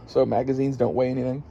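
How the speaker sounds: talking through hiccups; hiccuping. Real, not acted. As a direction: hiccups breaking the words. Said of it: "Sorry, I'm, uh, hiccuping".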